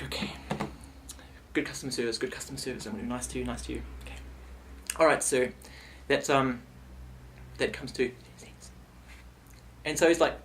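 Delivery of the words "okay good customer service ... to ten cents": muttered to self. Retold or imitated. Talking himself into patience.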